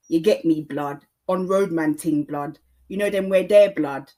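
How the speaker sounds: London street slang in a Jafaican accent. Shown as a demonstration. Podcaster demonstrating London youth talk, Jafaican accent. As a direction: put on an emphatic Multicultural London English accent. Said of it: "called a Jafaican accent".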